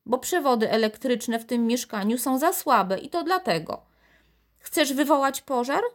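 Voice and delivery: high, fretful telling-off; scolding grandmother. A narrator's reading.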